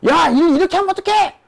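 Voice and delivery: high-pitched pretend telling-off; mock angry yell. Company chairman phoning a manager about bad work, yelling. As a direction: play a boss blowing up on the phone. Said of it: "소리를 버럭버럭 지르면서".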